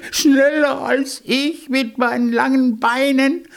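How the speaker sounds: very high, mocking hare laugh; scornful laughing. A narrator's reading. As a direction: squeal it in laughing disbelief.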